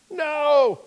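high, drawn-out yell; yelling across distance. Acted. Disciples answering across the lake, high long yell. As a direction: yell it out to carry far. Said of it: "Now they're yelling across the lake".

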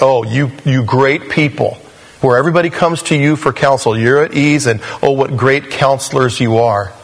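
lightly mocking flattery; tinge of sarcasm. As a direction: praise them with understated irony. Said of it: "a tinge of, of sarcasm".

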